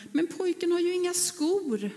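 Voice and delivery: shocked, caring cry of discovery; surprised discovery. Acted. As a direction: gasp it out as you notice his bare feet. Shoemaker discovers barefoot boy.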